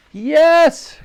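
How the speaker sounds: loud, very high yes; triumphant cheer. A narrator's reading. Another barrel is hit, triumphant cheer. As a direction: shout it in triumph.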